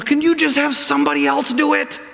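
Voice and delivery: put-on whiny child. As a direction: play Moses as a child dodging a chore. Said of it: "starts acting like a child".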